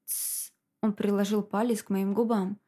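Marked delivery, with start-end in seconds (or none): 0.0-0.5 soft unvoiced shush; a quiet shushing sound; hush. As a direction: hush her gently. Hushing her.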